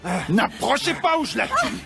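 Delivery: gloating laughing threat; mock them while threatening; hostage taker.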